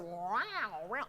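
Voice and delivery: comical sung cat yowl; mock cat meow sliding through the vowel; cat singing. Shown as a demonstration. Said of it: "I call it cat singing".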